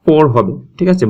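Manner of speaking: "পোড়" said firm and full, rising; teacher stressing পোড় against বারিক. Shown as a demonstration. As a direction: lean on "পোড়" to show the heavy sound. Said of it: "বারিক না, পোড় হবে".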